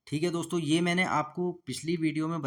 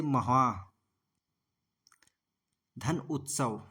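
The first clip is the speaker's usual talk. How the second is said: slow syllable split; 3 semitones lower, much slower than usual. Shown as a demonstration. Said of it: "महोत्सव को देख लेते हैं".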